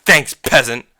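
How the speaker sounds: two punched words, a mocking thanks; corrected customer jibe. Speaker corrects how customer said it, mocking. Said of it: "No, he didn't say fucking".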